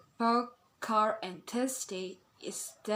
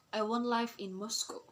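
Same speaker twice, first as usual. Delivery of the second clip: tune goes down on "Moscow"; falling intonation. Shown as a demonstration. Teacher showing falling intonation, "Moscow" falling at the end. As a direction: let "Moscow" drop to end the statement. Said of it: "example of falling intonation".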